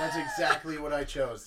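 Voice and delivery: loud, astonished exclamation; amazed outburst. Real, not acted. Co-host finds they picked the same thing, amazed shout. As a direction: burst out at an unbelievable match.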